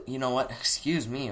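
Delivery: talking through hiccups; words caught between hiccups; hiccuping. Real, not acted. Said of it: "God, I'm hiccuping".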